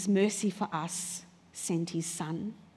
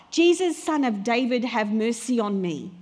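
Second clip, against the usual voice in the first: raised, pleading cry; 3 dB louder than usual. Acted. Blind beggar calls to Jesus as he passes, crying out. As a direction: call out for mercy. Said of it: "Because he cries out".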